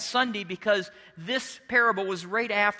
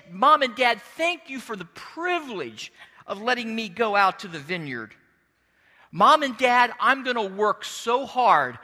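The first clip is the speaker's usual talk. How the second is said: excited. Acted. Son thanking Mom and Dad, excited. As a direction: gush lightly like an eager son. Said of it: "was so excited to go".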